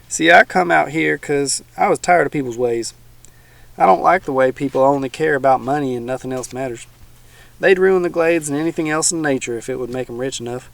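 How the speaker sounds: a hint of a folksy old swamp dweller; teasing old man, lightly voiced.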